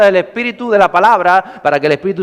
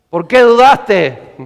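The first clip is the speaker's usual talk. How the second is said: slow, raised-voice reproach; higher, deliberate preacherly challenge; drawn-out rebuke; 4 semitones higher, 4 dB louder, much slower than usual. Acted. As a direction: stretch every word, calling out the reproach. Jesus rebuking Peter, acted.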